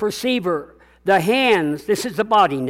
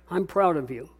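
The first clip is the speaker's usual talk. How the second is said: tender; 2 semitones lower, 4 dB quieter than usual. Real, not acted. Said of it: "repeats to congregation".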